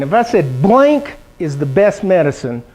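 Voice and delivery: slow, leaving "blank" hanging for the class; slow teacher quiz voice; slow quiz prompt. Shown as a demonstration. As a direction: dangle "blank" as a fill-in. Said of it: "who can answer this question".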